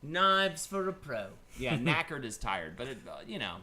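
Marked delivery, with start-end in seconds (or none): 0.0-1.3 Cockney movie quote. Pretend. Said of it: "Lock, Stock reference".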